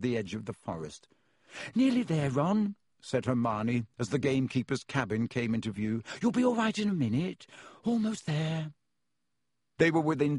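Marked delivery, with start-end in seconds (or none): 1.7-2.7 put-on high, gentle girl's voice; pitched-up coaxing; encouraging. A narrator's reading. Hermione encouraging her sick friend. 6.2-8.7 put-on high, concerned girl's voice; pitched-up encouragement; reassuring. A narrator's reading. Hermione reassuring her sick friend.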